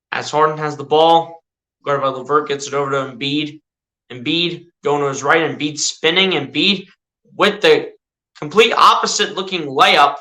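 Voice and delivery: mock sportscaster calling the action; casual play-by-play of a video game; live play-by-play. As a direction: call each move as it happens, like a TV announcer.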